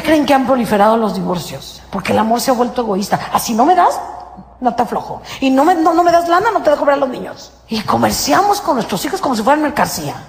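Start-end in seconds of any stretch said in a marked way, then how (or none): 3.3-7.5 mock demanding spouse. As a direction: play the spouse bargaining with the kids. Voicing quarreling couple, demanding. (cónyuge exigente, en burla)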